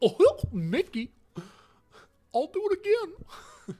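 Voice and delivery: very high pitch, drawled with swooping intonation. Telling a group about a disastrous dinner party, the speaker slips into a Goofy voice. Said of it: "Bro turned into Goofy".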